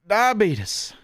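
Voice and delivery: high, alarmed cry of the word; shocked exclamation. Real, not acted. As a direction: blurt it out in disbelief. Reacting to sugar content.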